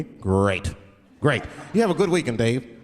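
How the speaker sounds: white lawyer voice. Retold or imitated. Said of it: "And they'll be like".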